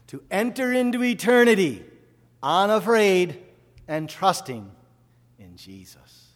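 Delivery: high, loud, slowing proclamation that drops away at the end; loud pulpit proclamation; proclaimed out loud. Acted. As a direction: ring it out, then let it fall. Preacher proclaims mother's death.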